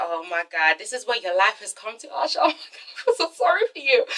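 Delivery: pitying the dancer alone at her webcam, hushed. Pretend. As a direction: murmur it like a sorry aside to Arsha. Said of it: "And I'm just like".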